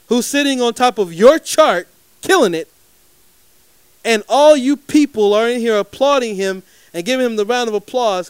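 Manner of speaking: heated rant. Retold or imitated. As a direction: lay into him, building the case. Retold heated confrontation with exec.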